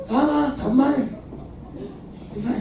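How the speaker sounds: high laughing question. Real, not acted. Laughs at own joke.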